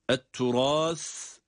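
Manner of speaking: "turâs" with a th-like final s; lisped S. Shown as a demonstration. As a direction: lisp the last sound of "turâs" as Arabic ث. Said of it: "S harfi peltek okunmakta".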